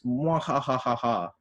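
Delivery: slow villainous mwahaha laugh; mad scientist. Pretend. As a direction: cackle like a comic-book villain. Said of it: "do a laugh like modoc".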